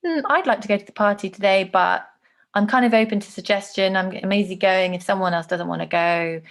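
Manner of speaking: easygoing, open to suggestion. Acted. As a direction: think aloud, leaving it open for others. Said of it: "it sounds less certain".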